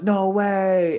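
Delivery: high, loud burst of disbelief; excited disbelief. Retold or imitated. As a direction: shout it like you can't believe the price. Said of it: "he's super excited".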